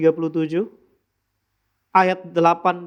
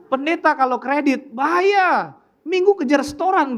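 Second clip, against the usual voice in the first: joking jab; 8 semitones higher than usual. Real, not acted. Joking punchline to congregation.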